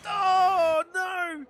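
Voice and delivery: high, loud oh no; real dismay. Real, not acted. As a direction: cry out in shock. Reacting live to the crash.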